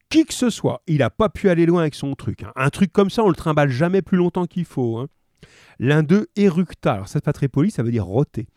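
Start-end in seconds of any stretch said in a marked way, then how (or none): 0.1-5.1 thick-voiced policeman. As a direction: chat through a mouthful. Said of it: "de leurs grosses voix pâteuses".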